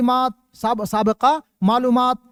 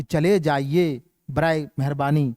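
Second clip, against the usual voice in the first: polite request; 6 semitones lower than usual. Shown as a demonstration. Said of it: "request ہے".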